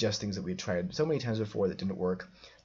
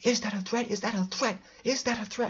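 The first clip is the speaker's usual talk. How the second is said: put-on shrill, very high, repeated screaming; 12 semitones higher, 3 dB louder than usual. Retelling a man yelling at them in a Tim Hortons: imitating someone screaming.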